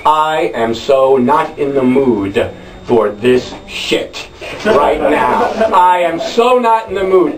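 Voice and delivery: low, slow, done-with-this inner voice; a touch of weary annoyance; fed up. Retold or imitated. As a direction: let it drip with I am so over this. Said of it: "expression on my face I can only assume was transmitting".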